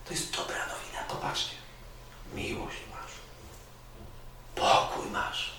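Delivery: soft, unvoiced words to the congregation; hushed. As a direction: whisper it like a secret. Preacher drops to hushed intimacy.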